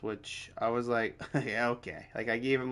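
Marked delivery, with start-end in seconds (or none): 1.3-2.1 brief mock chuckle, then an understated reply; dismissive laugh. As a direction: reenact laughing it off, softly. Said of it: "like, that laugh".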